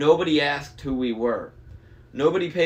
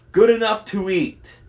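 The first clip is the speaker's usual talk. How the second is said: loud, high-pushed monster voice; hungry monster; 9 semitones higher, 9 dB louder than usual. A narrator's reading. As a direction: leer loudly like a hungry monster. Hungry monster baring teeth.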